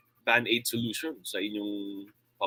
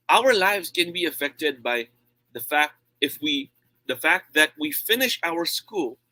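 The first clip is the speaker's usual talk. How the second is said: louder contrast demo; 4 semitones higher, 3 dB louder than usual. Shown as a demonstration. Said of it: "I can compare and contrast".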